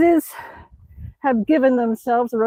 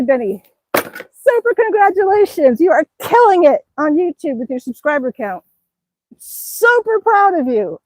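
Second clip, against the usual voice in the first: higher, gushing praise; excited congratulations; 4 semitones higher than usual. Real, not acted. Vlogger congratulating Benny on subscribers, gushing. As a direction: cheer on a friend's success.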